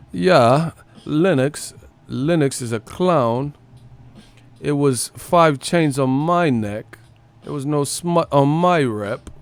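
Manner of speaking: slow mocking impression of a would-be Crip; Joshua. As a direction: imitate stilted tough talk, words drawn out. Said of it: "you don't say it like a Crip".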